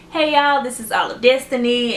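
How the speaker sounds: bright, lively channel greeting; cheerful signature intro; upbeat intro. Retold or imitated. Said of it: "I was like".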